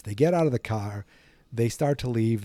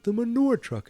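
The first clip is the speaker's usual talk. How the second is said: put-on high wheezy old man; old Biff voice; 13 semitones higher than usual.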